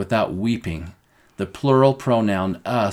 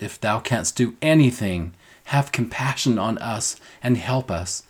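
a hint of a desperate father begging, lightly raised; desperate father's plea. Teacher voicing the desperate father begging Jesus, lightly pleading. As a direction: plead for your son, only lightly pushed. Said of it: "This man is desperate".

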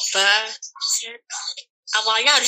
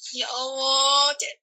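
hampir menangis; 6 semitones higher, slower than usual. Retold or imitated. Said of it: "kudu nuangis".

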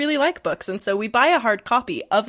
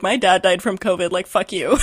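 imitated angry listener; 5 dB louder than usual. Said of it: "someone listening ... is gonna be like".

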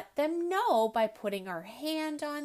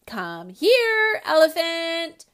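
higher, louder bossy summons; bossy call; 6 semitones higher, 12 dB louder, slower than usual. Acted. Ellie bossing her new elephant, loud and higher. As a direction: order it over like a little queen.

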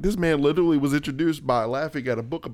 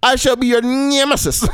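hammed-up grand menace; lightly voiced theatrical villain; mock villain threat; 7 semitones higher, 5 dB louder than usual. Skit villain threatens Batman, hammed-up grand. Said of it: "he's like".

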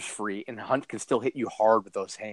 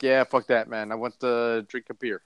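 loose attempt at a slightly Russian accent; vague, wandering accent with a hint of Russian; muddled foreign accent. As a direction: put on a half-hearted Russian-tinged accent. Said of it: "I don't know what accent that is".

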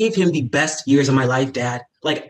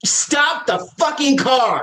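angry; 9 semitones higher, slower than usual. Acted. Cameron demands car stop.

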